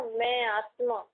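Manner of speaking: slow, settled मैं आत्मा with a falling close; unhurried, deliberate मैं आत्मा; slow inner affirmation. Shown as a demonstration. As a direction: say मैं आत्मा slowly, feeling it. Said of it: "जब हम अंदर ऐसा बोलते हैं ना".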